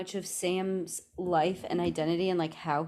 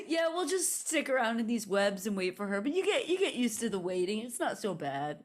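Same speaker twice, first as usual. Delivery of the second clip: dopey spider husband; 4 semitones higher than usual. Pretend. Helob voice.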